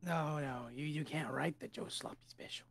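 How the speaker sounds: hushed, whispered warning; secretive whisper. Acted. Game master warning against writing the secret name, secretive whisper. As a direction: drop to a whisper, as if forbidden. Secretive vendor warns the buyer.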